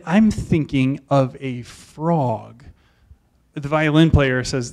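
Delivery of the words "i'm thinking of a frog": lightly voiced cryptic teacher, slow; a hint of the mysterious teacher, drawn out. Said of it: "he's all mysterious".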